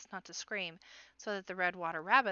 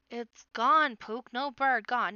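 loud, higher, exasperated retort; snapping; 4 semitones higher, 10 dB louder, slower than usual. A narrator's reading. Big sister correcting her noisy baby brother, snapping. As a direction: hammer it home to a little one, snapping. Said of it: "Paz snapped at him".

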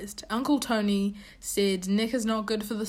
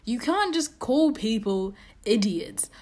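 scolding whisper. Real, not acted. Scolding Nick for insulting Tony.

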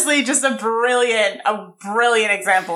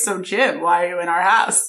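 slightly deepened man-to-man voice; lightly put-on lower register; deeper voice; 3 semitones lower than usual. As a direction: drop your voice a little for the question. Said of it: "then says in a deeper voice".

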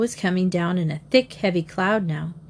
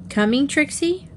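plaintive; 7 semitones higher than usual. A narrator's reading. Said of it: "Reddy cried plaintively".

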